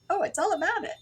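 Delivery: very high ditzy read of a song title; mock your naive self; imitating own mistake. To viewers, reliving the mistake in a high ditzy voice. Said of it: "I said".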